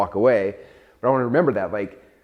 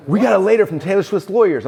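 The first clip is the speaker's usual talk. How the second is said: higher, louder alarmed quote; panicked retelling; 9 semitones higher, 6 dB louder than usual. Retold or imitated. Founder retelling his panic at a letter from a pop star's lawyers, alarmed and louder. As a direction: relive the shock of the lawsuit letter. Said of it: "I'm freaking out".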